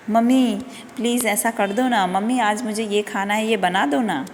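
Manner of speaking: teacher imitates a child sweet-talking mummy, coaxing; sweet pleading child. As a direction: wheedle sweetly like a kid who wants a treat. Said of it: "प्यार से बात करते हैं".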